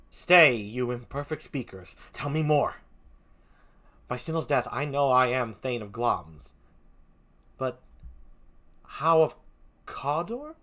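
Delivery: a hint of a stern nobleman; steady, grave Macbeth; lightly played Macbeth; lightly voiced Macbeth. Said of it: "Macbeth is like this".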